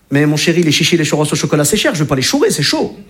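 ch sounds leaned on in chéri, chichis, churros, chocolat, cher, chourer, chaud; a dad answering his son in ch alliteration. Retold or imitated. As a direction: play up every ch. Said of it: "en allitération".

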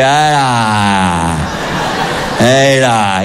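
low grumbling old dad, a lightly voiced father; grumpy father. Father grunting at his wife in retirement, low grumble. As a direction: mutter it like a tired old dad. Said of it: "il fait".

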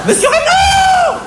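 very high, slow shrill call; squealing cashier calling out; shrieking for the boss. Acted. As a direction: shriek the boss's name across the shop. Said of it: "hurla-t-elle en ameutant tout le magasin".

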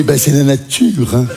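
slow, low mum voice; mother's voice. Retold or imitated. Mother shrugs off her son's embarrassment, slow low voice. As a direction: drawl it out unbothered. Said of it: "Elle fait".

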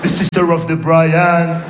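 slow drill. Retold or imitated. Textbook drill.

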